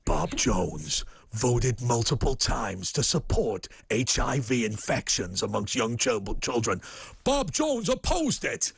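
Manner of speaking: slow ominous ad narrator; American political attack ad. Acted. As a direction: read it like a smear ad. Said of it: "I'm gonna try and impersonate it".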